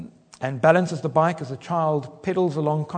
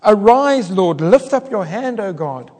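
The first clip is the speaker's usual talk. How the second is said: loud, rising plea for God to act; urgent prayer; 3 semitones higher, 8 dB louder, slower than usual. Acted. Preacher praying for God to arise and act. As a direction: pray boldly for God to lift his hand. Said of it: "And so we can pray".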